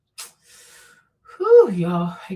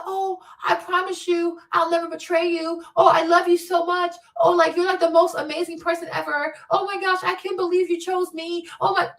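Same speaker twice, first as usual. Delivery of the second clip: high, gushing mockery of an overeager lover; mock gushing lover, lightly hammed up; 7 semitones higher than usual. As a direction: coo the promises like a smitten fool. Mocking gushing promises.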